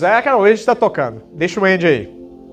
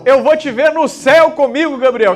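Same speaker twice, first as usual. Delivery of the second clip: a prophet's raised declaration; thundering prophet voice; 4 semitones higher than usual. Pretend. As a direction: proclaim it high and strong. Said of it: "voz de profeta".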